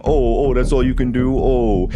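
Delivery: sneering singsong quote; mocking quote. Mocking the filmer's line to the woman, sneering. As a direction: mimic him with scorn. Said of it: "That's so lame".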